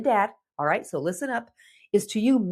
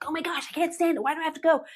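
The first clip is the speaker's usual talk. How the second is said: put-on high, whining teenager complaint; whiny teen; 7 semitones higher, much faster than usual. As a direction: whine like a reluctant teen.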